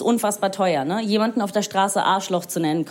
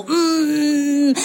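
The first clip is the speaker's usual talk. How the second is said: pinched complaining hum; 4 semitones higher, 3 dB louder than usual. Acted. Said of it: "bis ihr so klein und blass werdet".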